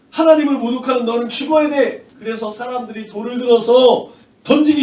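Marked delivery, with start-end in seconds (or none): 0.1-2.1 higher, indignant accusing voice; mildly heated mock outrage; acted condemnation. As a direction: pass sentence as the offended crowd. Crowd condemns Stephen for blasphemy.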